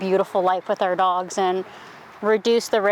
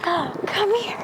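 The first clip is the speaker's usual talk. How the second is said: calling a dog; 10 semitones higher than usual. Real, not acted.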